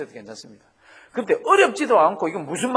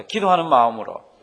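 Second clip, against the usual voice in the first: 기도하는 마음으로 called out louder, stress on 기도하는; call and response; 8 dB louder than usual. Shown as a demonstration. Pastor leading the congregation to repeat after him, loud call. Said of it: "한번 따라 하십니다".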